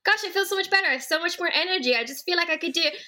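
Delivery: high-pitched chirpy self-quote; lightly mocking high, perky enthusiasm; retold delight. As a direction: play your pleased, energised past self. Acts out her bread-free self.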